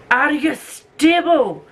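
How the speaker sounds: high, slow drawn-out question to the tripod; sing-song. Acted. To the tripod on the book trolley, high slow coo.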